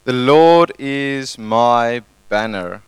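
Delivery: slow, deliberate declaration; slow modelled phrase. Shown as a demonstration. Pastor modelling the phrase for neighbours, slow and deliberate. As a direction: spell it out slowly for the congregation. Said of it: "say to the person next to you".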